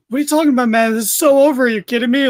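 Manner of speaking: high, loud mock disbelief; incredulous retort. Retelling Max's retort to his tag partner, incredulous. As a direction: scoff like it's already over. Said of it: "I love Max's retort".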